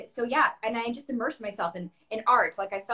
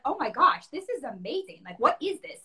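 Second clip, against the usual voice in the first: retold excitement; 4 semitones higher than usual. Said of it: "I was so excited".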